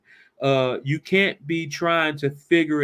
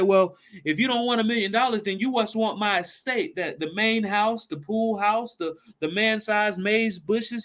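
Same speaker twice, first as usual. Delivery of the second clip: eager; 6 semitones higher than usual. Acted. Jed keeps pressing eager offers.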